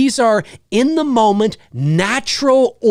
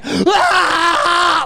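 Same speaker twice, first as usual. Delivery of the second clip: fan yell; 8 semitones higher than usual. Retold or imitated. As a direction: holler like a hyped fan. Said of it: "to stand up in your chair".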